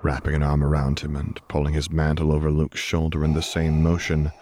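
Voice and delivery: usual speaking voice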